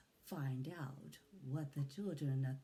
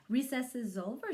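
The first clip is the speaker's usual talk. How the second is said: mock yell; 6 semitones higher, 4 dB louder than usual. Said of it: "she yells".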